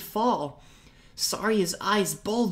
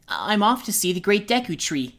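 cheerfully; 3 semitones higher, 4 dB louder than usual. Acted. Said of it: "Link told him cheerfully".

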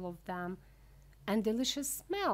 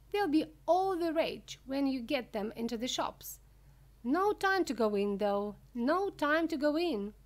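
high, loud, enthusiastic showman; Mister Wonka, excited; 7 semitones higher, 7 dB louder than usual. Acted. Wonka hurrying visitors past his rooms, loud and excited. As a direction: rush them along with loud, high enthusiasm. Narrator plays hurried Wonka.

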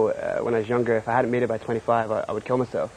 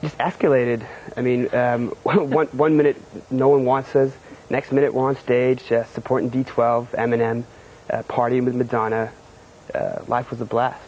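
The speaker slips back into his fake Californian rapper accent, lightly; a hint of a laid-back California accent. Host asks him to answer as his rapper character, in a lightly put-on Californian accent. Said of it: "stick in your character and your Californian accent".

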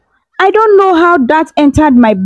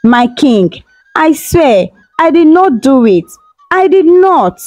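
higher and rising, desperate; crying plea; 6 semitones higher than usual. Acted. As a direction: beg harder as they drag you off. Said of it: "She kept on crying".

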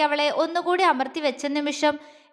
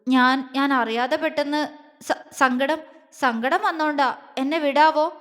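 hesitant, halting stammer; trembling. Acted. Girl asking to be released, trembling and hesitant. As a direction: stumble timidly through the excuse. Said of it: "വിറയലോടെ ചോദിച്ചു".

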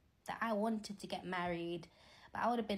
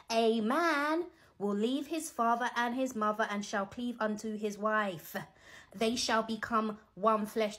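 louder scripture reading for those taking flights; 5 dB louder, slower than usual. Shown as a demonstration. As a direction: read out louder, with emphasis. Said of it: "should I say it again a little bit louder".

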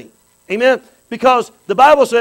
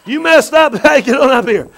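voicing Jesus; 3 semitones higher, 4 dB louder than usual. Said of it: "he goes".

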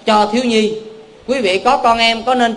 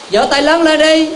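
rousing call; 8 semitones higher, 4 dB louder than usual. Real, not acted. Kêu đại chúng vỗ tay.

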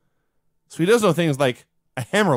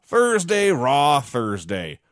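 lightly imitated announcer, drawn-out words; mock intro narration, slow on the last words; show narrator; much slower than usual. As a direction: stretch it out like an intro voice-over. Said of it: "the narrator saying".

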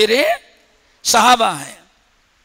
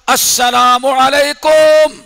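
slow, drawn-out, raised greeting; louder greeting; 2 semitones higher, 4 dB louder, much slower than usual. Retold or imitated. Prophet greeting again at the door, louder and slower. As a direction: call it out more firmly. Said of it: "اور زور سے".

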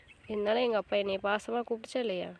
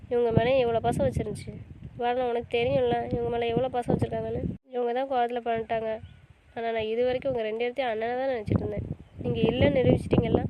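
louder, rising bitter accusation; angry reproach; 4 dB louder than usual. Acted. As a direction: build up to a hurt accusation.

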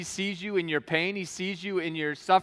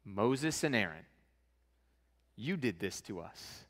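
defeated lament; 7 semitones lower, 8 dB quieter than usual. Retold or imitated. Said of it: "And they're like".

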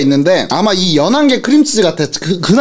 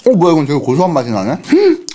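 talking between bites; chewing while talking; 2 semitones lower, faster than usual. Real, not acted. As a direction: mouth partly full. Seen 0: Bites cheese ball at -3, chews while talking, holds bitten piece.

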